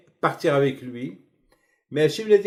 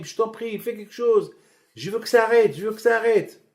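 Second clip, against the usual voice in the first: pleading Pharaoh; 5 semitones higher than usual. Acted. Pharaoh begs Moses to stop plagues.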